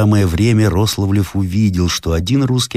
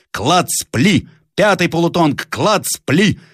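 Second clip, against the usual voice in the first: commanding shout; 11 semitones higher, slower than usual. Acted. Captain to riflemen, high shouted volleys. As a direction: snap out fire orders. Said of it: "скомандовал Зарядьев".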